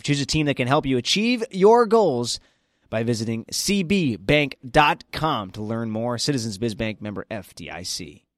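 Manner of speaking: brisk bank commercial read. Acted. Host reading a bank sponsor spot, polished ad voice.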